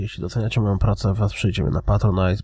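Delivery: raspy, worn-out hoarse voice. Real, not acted. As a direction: talk through a hoarse, scratchy throat. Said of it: "Przepraszam za mój trochę zachrypnięty głos".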